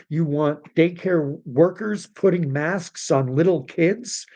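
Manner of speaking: disbelieving question, climbing high; outraged disbelief; incredulous. Real, not acted.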